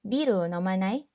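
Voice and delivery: "nomanai" lifted at the end as a question; rising intonation. Shown as a demonstration. Teacher inviting someone to drink beer, rising intonation on "nomanai". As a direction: let "nomanai" rise into an invitation. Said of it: "we set it with a rising intonation".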